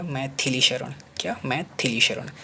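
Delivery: मैथिली with a clear short i after th; corrected pronunciation. Shown as a demonstration. Teacher correcting the spelling, मैथिली spoken syllable by syllable. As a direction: sound out मैथिली as mai-thi-li. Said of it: "ये सही हो जाएगा".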